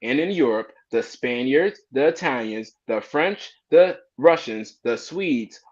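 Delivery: emphatic oratory, pitch lifted on key words; formal reading aloud. Retold or imitated. Reading Benjamin Franklin's essay to the group, emphatic formal reading. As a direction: declaim an old document with punched phrases.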